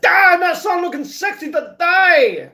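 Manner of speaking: high, loud, drawn-out whoop of delight; exuberant shout. Retold or imitated. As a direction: belt it out slowly, hugely thrilled. Acts out his delighted morning reaction.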